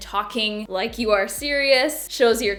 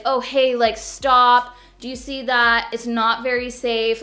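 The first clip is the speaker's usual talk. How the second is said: light, breezy mock caution; hand-wave the danger casually; a hint of a too-casual parent; gentle soft-pedaled warning; 5 dB louder than usual. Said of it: "it couldn't be like".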